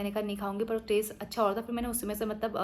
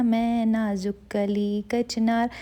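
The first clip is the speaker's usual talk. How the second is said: mock dainty; 6 dB louder, much slower than usual. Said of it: "मैं ऐसे उनकी मजाक बना रही थी".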